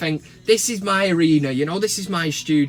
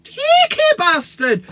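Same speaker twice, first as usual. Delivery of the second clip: high, slow, drawn-out yell; hammed-up furious shout; outraged shout; 8 dB louder, much slower than usual. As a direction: roar it at the picture. Outraged at lookalike photo.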